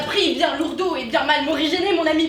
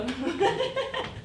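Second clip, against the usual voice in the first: high mocking burst of laughter; 5 semitones higher, 5 dB quieter than usual. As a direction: laugh at him openly. Servant laughs at the doctor.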